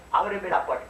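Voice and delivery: the wolf pleads sweetly at the door; wolf pretending. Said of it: "Dijo el lobo".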